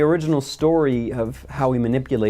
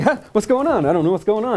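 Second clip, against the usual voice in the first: goofy guard voice; 8 semitones higher, faster than usual. Retold or imitated. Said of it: "he's like".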